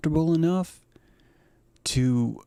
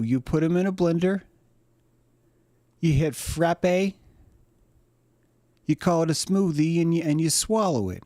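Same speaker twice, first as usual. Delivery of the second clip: aggrieved chef; 5 semitones higher than usual. Acted. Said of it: "says the chef".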